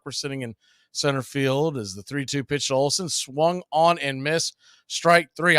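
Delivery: steady play-by-play announcer read; play-by-play call. Acted. Announcer calling the count to the stream. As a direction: call the pitches like a broadcaster.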